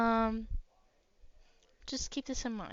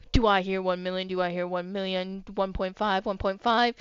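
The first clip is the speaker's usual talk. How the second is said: auctioneer; 3 semitones lower than usual. Acted. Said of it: "an auctioneer's voice".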